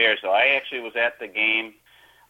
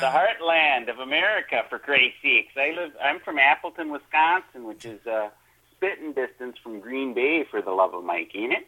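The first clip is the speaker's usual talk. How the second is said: folksy Wisconsin accent, played up for the host. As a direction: lay the Wisconsin accent on a bit thick. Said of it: "you're playing up that accent".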